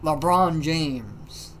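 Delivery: slow, drawn-out exasperated quote. Retold or imitated. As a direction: imitate a friend wearily naming the culprit. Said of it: "he just had a really exasperated thing".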